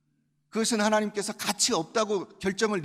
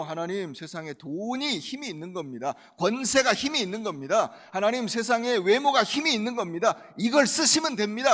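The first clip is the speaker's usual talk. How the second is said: worldly prayer; 3 semitones higher, 5 dB louder than usual. Acted. Acts a worldly believer praying.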